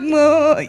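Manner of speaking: high imitated wail; hammed-up sob; mock crying moan. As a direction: moan back like a crying friend. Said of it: "stop crying".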